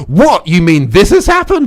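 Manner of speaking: slow, incredulous straight-man reaction; mildly hammed-up disbelief; mock surprise. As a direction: play at being taken aback, drawn out. Acted reaction in comedy formula.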